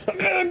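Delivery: high mock yell; short, high creature cry; imitated kobold cry. Game master imitates the spear kobold rushing up, mock cry.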